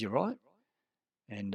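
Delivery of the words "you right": sharper challenge, higher and louder; curt, pushier. Retold or imitated. Flatmate repeating his challenge, curt and louder. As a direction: push it at him, more aggressive. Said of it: "he was really curt".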